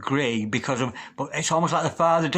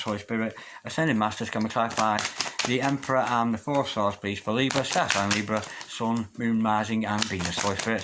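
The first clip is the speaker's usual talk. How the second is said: low, soft chant-like prayer; hushed invocation; 5 semitones lower, 4 dB quieter than usual. Acted. Reader quietly repeats her plea to the spirit guides, hushed prayer. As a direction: murmur the call to the masters, lower and softer.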